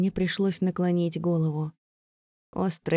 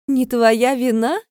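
slow, higher, louder scornful echo; mocking; 5 semitones higher, 9 dB louder, slower than usual. A narrator's reading. Vika mocking Leira's excuse, slow and scornful. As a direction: sneer the words back at her. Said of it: "с издёвкой произнесла она".

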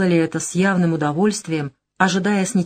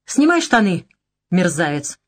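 harsh command. Acted. The girl commanding her attacker to strip, harshly. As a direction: order the scoundrel with contempt.

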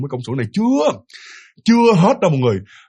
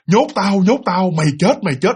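continuous chant imitating the bird; nonstop repetition; 3 semitones higher than usual. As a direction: run the bird's phrases together without pauses. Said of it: "nói kiểu như nói liên tục như vậy". (nhại tiếng chim, nói liên tục)

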